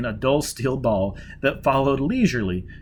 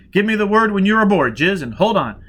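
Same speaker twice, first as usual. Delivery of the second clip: raised, louder command; urgent order; 8 semitones higher, 6 dB louder than usual. Acted. Foyle urging Jiz aboard, urgent and loud. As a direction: press her to hurry.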